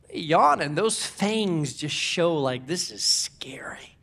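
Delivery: hushed, dropping to a near whisper; scary whisper. Acted. Preacher hushing the congregation over lion fangs, whispered. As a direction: whisper it like the lion might hear.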